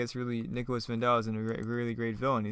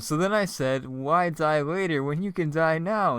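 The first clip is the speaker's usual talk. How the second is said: hammy raconteur; 5 semitones higher, 6 dB louder, slower than usual. Acted. Deadpool rambling to prisoner, acted.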